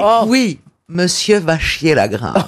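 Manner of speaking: low, slow snobbish drawl; posh French accent. Shown as a demonstration. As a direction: say it like a haughty aristocrat. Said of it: "avec l'accent snob".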